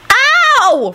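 very high wail of pain; pained moan. A narrator's reading. Rosie landed face first, moaning in pain. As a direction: moan it high, freshly hurt. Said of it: "Rosie moaned".

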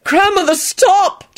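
high-pitched exasperated cry; shout. A narrator's reading. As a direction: call out to halt her. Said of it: "Jamie shouted".

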